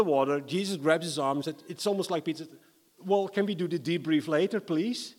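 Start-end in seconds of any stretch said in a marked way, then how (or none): 3.0-5.1 impatient plea. Acted. Peter pleading while in water.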